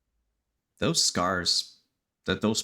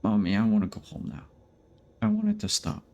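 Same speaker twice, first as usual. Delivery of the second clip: put-on scared child voice; faster than usual. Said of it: "Jack will say".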